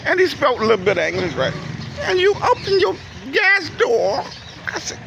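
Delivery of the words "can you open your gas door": high, light mock attendant voice; imitating attendant. Attendant asking him at the car window, high mock voice. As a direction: pitch it way up like the small attendant.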